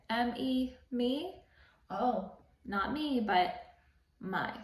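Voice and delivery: "me" drawn out slowly, then "my" set apart; slow, teasing "not me, but my"; contrast me and my. Shown as a demonstration. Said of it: "We'll say".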